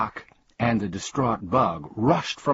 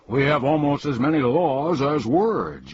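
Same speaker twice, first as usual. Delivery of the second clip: higher-pitched, grumbly complaint; grumbling; 6 semitones higher, 4 dB louder than usual. A narrator's reading. King rejecting the humbug's idea, grumbling. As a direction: grumble back in exasperation. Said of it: "grumbled the king".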